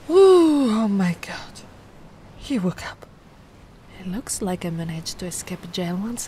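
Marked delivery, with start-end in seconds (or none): 0.1-0.7 loud high ooh; relieved surprise. Acted. Human wakes up. 0.7-3.1 unvoiced hushed relief; relieved whisper.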